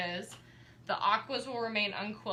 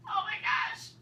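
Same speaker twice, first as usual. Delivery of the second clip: much higher, overcome with delight, gasping; emotional; slower than usual. Real, not acted. Greeting Monty as he finally arrives, high emotional cry. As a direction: swept away by a sudden tearful joy. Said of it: "I just needed to be emotional".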